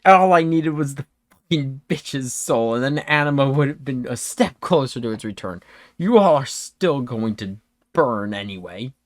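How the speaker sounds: lightly voiced defiant villain; bitter cultist villain. Plays the exposed culprit.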